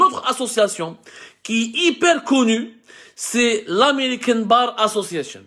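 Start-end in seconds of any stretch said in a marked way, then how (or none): 3.7-5.4 English name with a French-speaking Algerian's accent; real accented English. Real, not acted. Vlogger naming a US association to compatriots, accented English. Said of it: "excusez mon accent anglais catastrophique".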